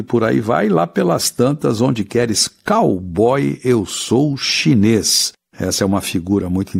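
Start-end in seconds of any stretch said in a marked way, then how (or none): 1.8-5.3 slow poem recitation. Shown as a demonstration. Teacher recites verse very slowly.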